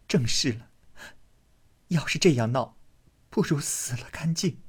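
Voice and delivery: hushed, breathy, cutting; bitter retort. Acted. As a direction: throw his words back quietly. Daiyu retorts.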